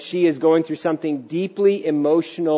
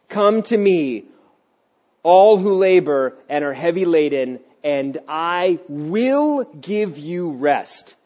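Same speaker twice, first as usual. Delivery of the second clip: solemn scripture reading; slower than usual. Acted.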